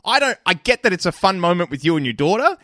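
loud, high, exasperated scolding; exasperated lecture. Acted. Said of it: "I'm lecturing you specifically".

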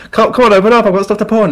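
loud, high knocking demand; impatient shouting. Retold or imitated. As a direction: yell through the door to be let in. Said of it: "they're like".

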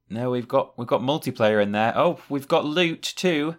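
sarcastic, high excited gasps; mock excitement. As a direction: feign delight at each new feature. Mock excited discovery of features.

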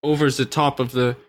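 German documentary filmmaker voice; deadpan German interviewer; Werner Herzog impression. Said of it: "my impression".

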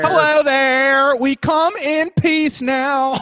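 high, slow alien voice. Retold or imitated. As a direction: speak slowly like a visiting alien. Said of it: "the aliens were like".

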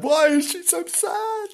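a playful high ghostly taunt; high teasing ghost-story voice; high mock spooky voice. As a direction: ask it again way up high, teasingly. Repeated in high put-on voice.

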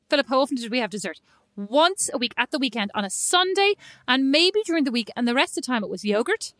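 a light hint of an indignant mum; lightly voiced mother defending herself to Dad; channeling Mom. Sister imitating their mum insisting on dessert rules, lightly mock-indignant. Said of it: "I'm gonna channel Mom right now".

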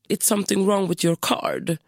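put-on lightly Spanish-accented receptionist English; a hint of a Spanish receptionist, slowing down. Receptionist explaining the card charge, light Spanish accent. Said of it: "spansk brytning".

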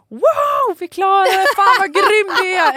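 loud, high cheering yell; triumphant shout. Retold or imitated. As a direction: shout in triumph over the delivery. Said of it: "Jag ställer mig och skriker". (högt, ljust segerrop)

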